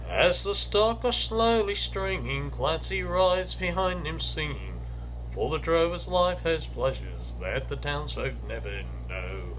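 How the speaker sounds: slow, measured bush-ballad reading with a lilting rhythm; poem recital. Acted. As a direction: read it like a fireside ballad for listeners. Recites Banjo Patterson poem.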